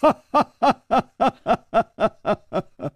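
a long falling wail; wailing sob. Acted. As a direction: break into a howl of grief. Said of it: "他痛哭着说".

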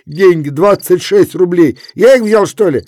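high, loud angry snapping; angry retort. A narrator's reading. Kuzma rebuffs Efrem, loud angry retort. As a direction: snap back in anger.

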